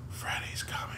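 ghostly whispered warning; eerie echo whisper. Retold or imitated. Telling friends the nightmare's echo, eerie whisper. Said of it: "I hear my echo".

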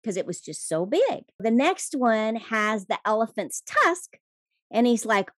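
lively fireside storytelling, building up. A narrator's reading. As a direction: tell it like a fireside tale. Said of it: "let me put on my storytelling voice".

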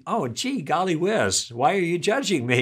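not belligerent, playfully naive; mock innocent. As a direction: ask it like a harmless gee-whiz question. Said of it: "I wasn't angry".

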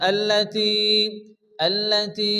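আল্লাতি with the final ee held; one-alif stretch. Shown as a demonstration. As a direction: draw out the end of আল্লাতি on a steady tone. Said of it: "এক আলিফ পরিমাণ টান দিয়ে".

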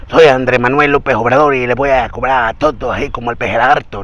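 hurried AMLO impression, run together; demasiado rápido. Shown as a demonstration. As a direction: rattle off the impression without pauses. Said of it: "Él no habla así como de". (imitación apresurada, de corrido)

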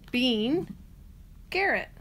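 usual speaking voice

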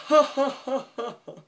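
loud, high mock laughter; hammed-up cartoon guffaw, far above your own voice; imitated manic laugh. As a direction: imitate a man laughing wildly. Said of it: "the guy is just laughing".

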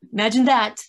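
annoyed emphasis with a laugh underneath; mild exasperated anger. Real, not acted. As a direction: vent your irritation, half amused. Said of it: "some anger there".

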